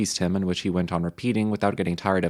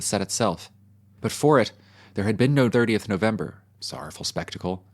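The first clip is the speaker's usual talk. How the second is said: lightly voiced solemn sermon; a touch of a mournful pulpit voice; mock French preacher. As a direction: preach it with grave eloquence. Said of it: "one French sermon which closed in this odd yet eloquent way".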